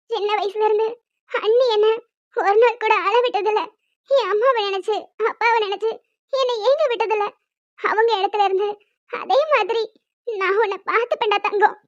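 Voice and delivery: put-on soft, loving murmur to a baby; hushed, affectionate promise; tender reminiscence. Tender memories told to sleeping baby.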